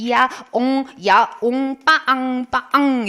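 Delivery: spelt-out meows and slow, stretched honks; meow and honk imitation. Teacher explaining imitated noises, meows then honks. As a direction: sound out animal and horn noises. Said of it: "소리를 비슷하게 제가 표현해서".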